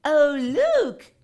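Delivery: put-on high, loud child's delight; excited cry. A narrator's reading. Children spotting the new seesaw, excited. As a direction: gasp at the new toy. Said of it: "they cried".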